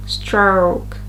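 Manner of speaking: STROKE with a drawn-out O gliding to oo; prolonged O. Shown as a demonstration. Teacher contrasting with the short version, prolonged diphthong in STROKE. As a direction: lengthen the vowel in STROKE. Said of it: "it's a bit more prolonged".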